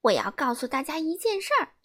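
quick, eager announcement; mock grand announcement; announcing. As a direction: gossip about to spill news. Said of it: "是非小姐宣布".

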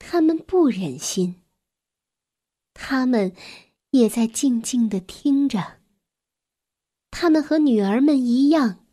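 gentle, measured storytelling with long pauses; children's story narration. A narrator's reading. Narrator tells a child about a grieving mouse family, measured storytelling.

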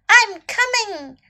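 high, drawn-out call; crying out. A narrator's reading. Snake rushing to rescue little elephant, crying out. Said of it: "Snake cried".

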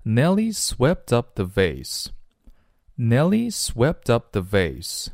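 slow model sentence with "swept up" linked as swep-tup; teacher's slow repeat-after-me linking of "swept up"; linked pronunciation. Shown as a demonstration. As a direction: read slowly, joining the t of "swept" onto "up". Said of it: "我们读起来的时候会连读成".

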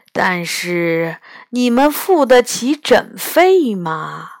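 put-on slow, condescending old man giving in; a crafty old doctor naming terms; grudging old healer. 老神仙勉强答应. (慢吞吞、带点算计的老者)

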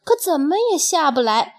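measured, expressive storyteller delivery; storybook reading with lingering phrase endings; children's story narration. A narrator's reading. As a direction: tell it slowly to little listeners, phrase by phrase.

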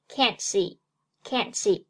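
can't see with the t of "can't" unreleased, run into "see"; t dropped. Shown as a demonstration. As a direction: say "can't see" as one linked unit, no t burst. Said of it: "读作can't see".

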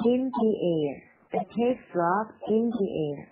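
slow model reading, "thee air" with long ee; THE as "thee" before AIR. Shown as a demonstration. Teacher modelling the vowel rule, THE pronounced "thee" before AIR. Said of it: "就是这个D的变音".

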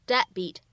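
deadbeat with the first d only mouthed; lost plosion. Shown as a demonstration. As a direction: mouth the d in "deadbeat" and go straight to beat. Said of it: "只做了口型".

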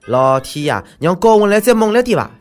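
high, loud theatrical cry; mock dramatic plea. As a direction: ham up a plea to the sky.

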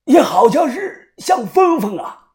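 high, slow, puzzled; madman, dawning recognition. Acted. Madman slowly recognizing his captive, high and slow. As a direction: drag it out as if the memory creeps back.

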